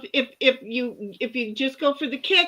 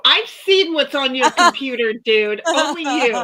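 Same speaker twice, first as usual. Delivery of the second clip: laughing; 6 dB louder than usual. Real, not acted. Laughing at the friend.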